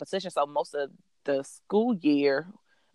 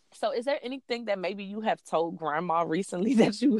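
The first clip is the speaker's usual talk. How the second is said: put-on gently coaxing a child, a little higher; nice, careful mom voice; 4 semitones higher than usual. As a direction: mom tiptoeing into a question, laughing mid-way. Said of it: "couldn't figure any other nice way to say it".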